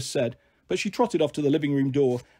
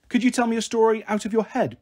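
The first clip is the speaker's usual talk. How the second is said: put-on higher-pitched little girl wheedling; coaxing; 6 semitones higher than usual. Little girl asking her big sister for a story, coaxing. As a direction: coax like a small child wanting a treat. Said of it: "Bliss coaxed".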